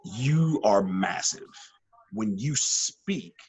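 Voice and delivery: very slow, measured advice; slow each word down like a calm veteran; a slow, understated mentor. Retold or imitated. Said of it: "He goes".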